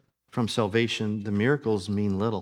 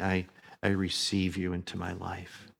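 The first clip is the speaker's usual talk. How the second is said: softer, heartfelt welcome; sincere receiving; 3 semitones lower, 5 dB quieter than usual. Acted. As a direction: say it as a humble, earnest surrender. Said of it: "There's a difference between that and saying".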